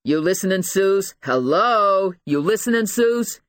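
impatient, badgering detective; demanding attention. A narrator's reading. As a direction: call out to get through to her.

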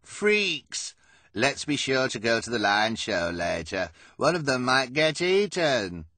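loud sneering jeer, starting very high; drawn-out, mocking glee. A narrator's reading. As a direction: jeer at them for the crowd to hear. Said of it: "with a sneer".

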